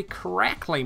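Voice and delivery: correctly in the speaker's own British way; British pronunciation. Shown as a demonstration. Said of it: "I can't handle it correctly".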